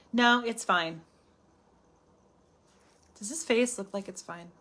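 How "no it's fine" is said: passive aggressive. Pretend. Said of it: "women are passive aggressive".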